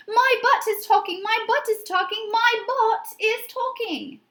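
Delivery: high, loud panicked yell. A narrator's reading. Edith shrieking at her talking butt, loud and high. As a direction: shriek it out in alarm. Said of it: "Edith jumped up and yelled".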